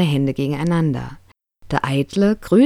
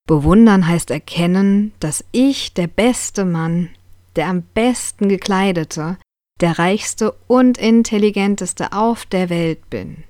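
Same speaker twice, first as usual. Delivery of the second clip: boastful vain man; 4 semitones higher than usual. Acted. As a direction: savour every word of self-praise. Vain man boasts about himself. (eitler Mann, langsam und selbstgefällig prahlend)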